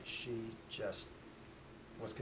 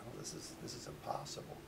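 hushed, low inner thought; whispered disbelief; 4 semitones lower, 8 dB quieter than usual. Retold or imitated. Father thinks to himself about the ghost, whispering in disbelief.

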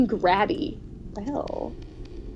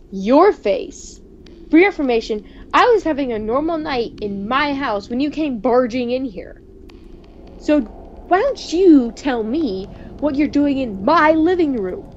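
indignant; 3 semitones higher, 5 dB louder than usual. Acted. Confronting his double over his own house, loud and indignant. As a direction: demand answers from the intruder.

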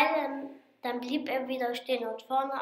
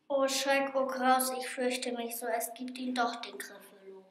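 fading into a much softer frightened hush; fearful dread; 5 dB quieter than usual. Acted. Mouse realising the Gryffalo is real, fading softer. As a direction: let the fear drain the voice away.

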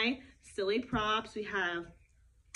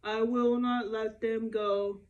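lower, stubborn king refusing flatly; a storyteller's gruff, obstinate Pharaoh, lightly voiced; 4 semitones lower, slower than usual. Pharaoh refusing to free people.

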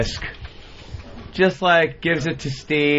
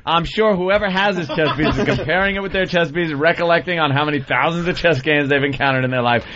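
sarcastic re-read, speeding up toward the end. Acted. Host re-reads the chess letter for laughs, sarcastically. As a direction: run through it with mocking sarcasm. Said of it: "That's a good sarcasm there".

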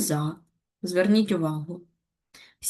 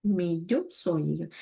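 slow dictation; 3 semitones lower, 6 dB quieter, much slower than usual. Shown as a demonstration. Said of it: "Запишемо".

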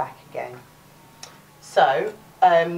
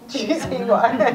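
laughing; 9 semitones higher, 5 dB louder, faster than usual. Real, not acted. Laughing mid explanation.

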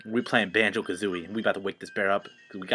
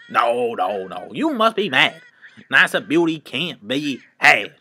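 indignant high voice; 3 semitones higher, 4 dB louder than usual. Acted. Voicing indignant character.

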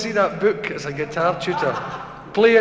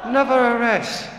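higher, lightly imitated Japanese doctor's accent; 4 semitones higher than usual. Japanese doctor overrules his patient, mock Japanese accent. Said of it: "It's a wee Japanese doctor".

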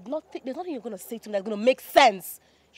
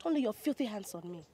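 angry warning; 4 semitones higher, 6 dB louder than usual. Acted. Woman recoiling from the lying man, angry and sharp. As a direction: warn him off hard.

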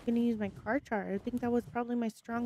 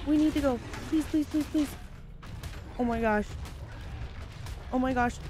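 panicked pleading; 3 semitones higher, 3 dB louder than usual. Real, not acted. Fleeing attack, desperate.

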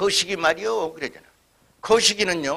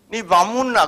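Gyeongsang dialect; 3 semitones higher, 4 dB louder than usual. Retold or imitated. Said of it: "또 경상도 뭐".

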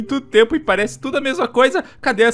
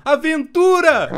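excited; 4 semitones higher, 4 dB louder, much slower than usual. Acted. Steve cheers for adventure.

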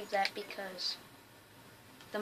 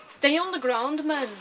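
loud, higher mock Scottish accent; attempted Scottish accent; 5 semitones higher, 8 dB louder than usual. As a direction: exclaim it in a rough attempt at Scottish. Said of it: "I can't do a Scottish accent".

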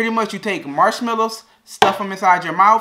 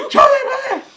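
high laughing through a stuffed mouth; garbled words round a mouthful; cheeks stuffed full; 7 dB louder than usual. Real, not acted. Marshmallow challenge, mouth stuffed.

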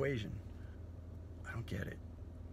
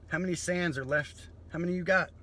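rising rant; 6 semitones higher, 5 dB louder than usual. Acted. Comic rant at crowd.

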